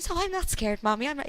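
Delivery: put-on high, small child voice; little boy's voice. Toddler son telling mommy he is fine, lightly childlike. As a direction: speak like a little boy reassuring mommy.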